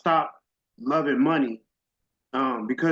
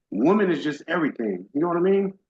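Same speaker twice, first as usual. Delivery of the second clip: voice cracking. Real, not acted. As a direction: voice cracking with real emotion. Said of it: "Sorry for my voice cracking up".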